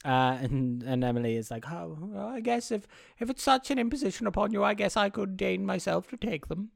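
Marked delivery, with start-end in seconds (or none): 1.7-6.7 high, put-on voice of grudging condescension; put-upon and grand, pitched up; haughty reluctance. Emily accepting the clothes as a favour, haughtily reluctant.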